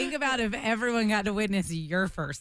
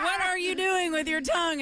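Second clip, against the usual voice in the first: mock shocked; 9 semitones higher than usual. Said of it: "I was like".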